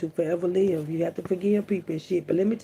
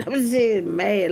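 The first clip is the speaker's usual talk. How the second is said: laughing; 4 semitones higher, 5 dB louder, much slower than usual. Real, not acted. Laughs explaining her pun.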